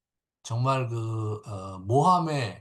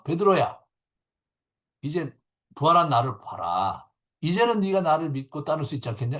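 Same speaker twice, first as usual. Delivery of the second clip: urging question; 3 semitones higher, 5 dB louder than usual. Retold or imitated. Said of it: "이렇게 질문하신 게 아니에요".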